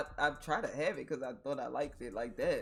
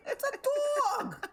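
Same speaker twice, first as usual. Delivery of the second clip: loud, high, very slow "It's a dog!" hammed-up; mock upper-class shout, much higher; posh drawl; 6 dB louder, much slower than usual. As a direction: stretch it like a fancy rich host. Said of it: "she says dog like that".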